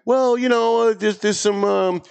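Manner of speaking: politician dodge. Retold or imitated. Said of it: "And his answer was".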